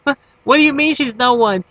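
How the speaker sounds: put-on a jealous girlfriend who can't believe his answer; hurt disbelief. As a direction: pitch jumps high, squeaky mock girlfriend.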